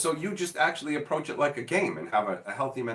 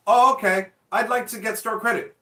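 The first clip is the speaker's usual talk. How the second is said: higher, louder naive customer; 6 semitones higher, 5 dB louder than usual. Retold or imitated. Customer asking the shop clerk for store credit, naive. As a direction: play the gullible buyer, eager. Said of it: "customer voiced in skit".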